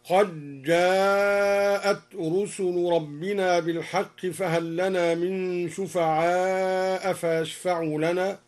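قد جاءت said "qajjaa'at", with a doubled j; dal merged into jim. Shown as a demonstration. Teacher gives a further example, قد جاءت merged on a double j. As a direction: merge the d of قد into جاءت, long vowel held. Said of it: "وكذا قوله تعالى".

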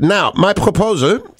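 put-on slow, formal German-accented reading; a hint of a German accent, slow. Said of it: "I'm allowed to do the German accent".

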